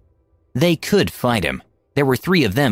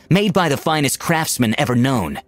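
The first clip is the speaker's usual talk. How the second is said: ranting prince; 4 semitones higher than usual. Acted. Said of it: "He ranted".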